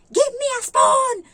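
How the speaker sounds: high, slow screaming order; mock yell. Imitating the employer yelling an order at her maid. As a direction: shriek the command like a bossy employer. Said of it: "Sisigaw siya kahit mag-uutos".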